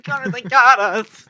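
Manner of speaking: high, loud hammed-up shriek; mock hysterical scream. Pretending to be girls in the car, mock shriek. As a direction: shriek for him to stop.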